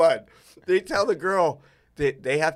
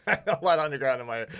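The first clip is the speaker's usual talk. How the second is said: laughing through the words; faster than usual. Real, not acted. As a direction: giggle while saying it. Joking, laughing through repeat.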